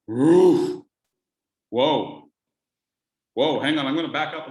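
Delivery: loud startled oof and whoa; startled reaction. Pretend. Hearing a big dog behind the door, loud startled whoa. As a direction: jump back from a big dog.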